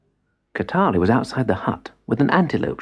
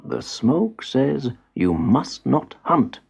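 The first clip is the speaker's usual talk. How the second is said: firm grandfather; 3 semitones higher, much slower than usual. Acted. Grandfather forbids the boy to hunt, slow and stern. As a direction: lay down the law slowly.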